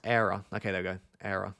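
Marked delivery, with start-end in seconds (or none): 0.0-0.4 "error" with an attempted Irish accent; lightly put-on Irish "error". Shown as a demonstration. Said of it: "the Irish accent you attempt to put on it". 1.2-1.6 quieter "Error" in attempted Irish; lightly put-on Irish "Error"; attempted Irish accent. Shown as a demonstration. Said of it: "the Irish accent you attempt to put on it".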